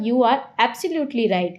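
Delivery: slow, with absolutely drawn out; weight every syllable of absolutely; stress on absolutely. Shown as a demonstration. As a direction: insist on absolutely. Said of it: "हमने इस बात पे emphasise किया".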